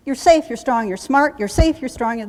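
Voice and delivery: lightly voiced drill instructor; field command voice. Shown as a demonstration. Treating the gunny sergeant, mild field command voice. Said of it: "say this in a field command voice".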